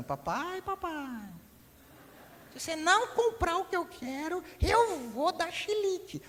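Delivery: put-on high, slow childish warning voice; sing-song little boy threatening his dad; child's threat. Boy warning his father at the store, high childish whine.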